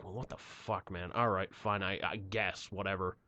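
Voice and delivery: low, very soft retold surrender; resigned grumble. Driver accepting the tow plan, resigned. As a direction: give in under your breath.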